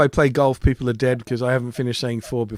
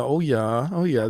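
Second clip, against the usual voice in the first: mock Fargo accent; 4 dB quieter, slower than usual. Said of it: "that kind of Fargo-ese".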